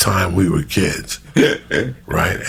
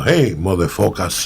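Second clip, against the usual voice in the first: stepfather's bad English. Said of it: "it sounded terrible".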